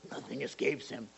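low, quiet ominous warning; mock-stern, hushed pronouncement; judgmental. Shown as a demonstration. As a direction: drop low as if passing judgment. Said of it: "that's not like a ju".

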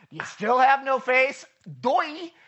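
teasing. Retold or imitated. Jesus teasing disciples.

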